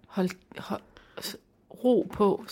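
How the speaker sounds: unvoiced whisper; whispered title. Real, not acted. Naming the book title, whispered softly. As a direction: hush it like a soothing shush.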